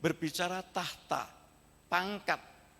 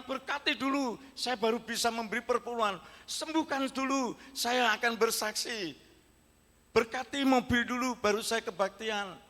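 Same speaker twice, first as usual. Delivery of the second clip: higher, whiny bargaining voice; mocking demands; 5 semitones higher than usual. Preacher mocking believers who bargain with God, higher whiny voice. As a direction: mimic a churchgoer haggling with God.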